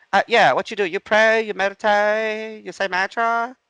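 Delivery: very high, loud mock Asian accent. Lady pressing him about prayer, in a loud Asian accent. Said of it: "I'm gonna do an Asian accent".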